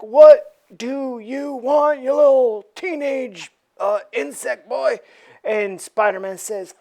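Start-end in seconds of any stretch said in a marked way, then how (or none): 0.0-5.0 scornful leader. Acted. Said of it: "Mister Fantastic's like".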